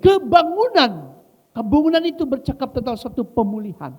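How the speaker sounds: high, loud, drawn-out proclamation; full-force preaching. Real, not acted.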